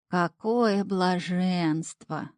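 slow, drawn-out sigh of pleasure; drawn-out bliss. A narrator's reading. Imp soaking feet, drawing out his delight. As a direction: stretch each word out in contentment. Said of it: "довольно протянул Шнырь".

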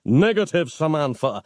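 high-pitched start, mildly panted. A narrator's reading. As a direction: pant back a firm refusal. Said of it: "Nick panted back".

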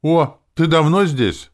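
light up at hearing her; gladly. A narrator's reading. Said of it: "обрадовался я мысленно".

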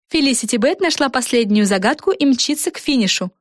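a touch of announcer reading; read ticker. A narrator's reading. Screen ticker announcing Felicity's lead, lightly voiced. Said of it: "гласила бегущая строка".

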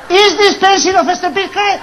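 mock shout. Shouting mock English drill.

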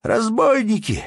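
very high, loud cry of alarm; sudden wail. A narrator's reading. Merchant cries out at the robbers, wailing. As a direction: raise the alarm at the top of your voice. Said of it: "завопил неожиданно купец".

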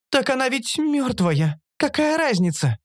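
high-pitched creature objection; creature Оша objecting. A narrator's reading. Оша arguing over eating the dead, objecting. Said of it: "возразила Оша".

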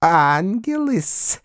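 high, slow, piping flattery; a toady's thin squeak; squeaky fawning. Acted. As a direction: spinster squeaking praise of Foma, high and slow. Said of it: "пропищала ... девица Перепелицына".

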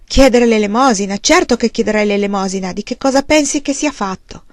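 bitter anger. Acted. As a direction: lash out at her in despair.

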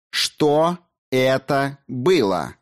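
slow, cold, clipped-off demand, each word set apart; loud and cold. A narrator's reading. Daughter confronting her father, slow icy demand. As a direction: spell it out icily and slowly to the father. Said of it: "Громко и холодно отчеканила Алиса".

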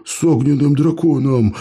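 «огненным» выдохнуто с изумлением, громче; awed gasp. Acted. Gromila repeats in amazement, awed gasp. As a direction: gasp out «огненным драконом» in wonder. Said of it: "ахнул Громила".

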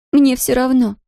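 put-on high, sharp outburst in a strong Polish accent; furious outburst. A narrator's reading. Distraught girl snaps at the shopkeeper, high and fierce. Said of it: "яростно выпалила девушка".

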